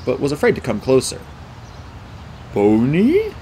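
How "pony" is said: timid whimper. A narrator's reading. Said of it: "He whimpered like he wanted".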